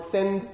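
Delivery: "sending" broken as "send", pause, "ing"; "sending" in two separate parts, break after the d; split into syllables. Shown as a demonstration. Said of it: "where are the syllable boundaries in English".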